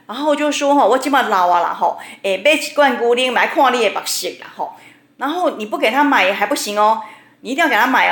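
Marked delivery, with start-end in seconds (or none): 0.8-4.7 tearjerker opera. Retold or imitated. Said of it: "就开始在那边演那个苦情戏".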